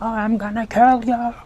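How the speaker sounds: lightly hammed-up monster threat; mock menacing pursuer. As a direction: play a mock scary chaser. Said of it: "not chasing to be like".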